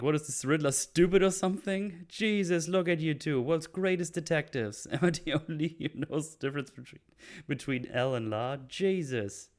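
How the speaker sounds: Penguin voice. Retold or imitated. Penguin mocks Batman and Gordon's Spanish, high and sneering. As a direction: sneer at the world's greatest detectives. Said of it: "Penguin mocks the detectives".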